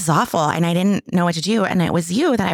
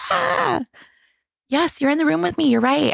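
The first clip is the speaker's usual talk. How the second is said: retold exasperated outburst; 12 semitones higher than usual. Wife snaps back at husband's comfort, retold exasperated outburst. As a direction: re-enact going off on someone, pitch shooting up. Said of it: "went off. I, like, unleashed on him".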